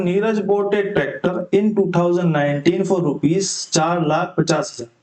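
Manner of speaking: slow, deliberate question read; reading the question aloud. Acted. Teacher reads the exam question to students, slowly. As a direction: read the problem word by word for students.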